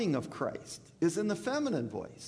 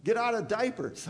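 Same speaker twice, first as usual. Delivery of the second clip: imitating Paul; 5 semitones higher than usual. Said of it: "Paul's telling you".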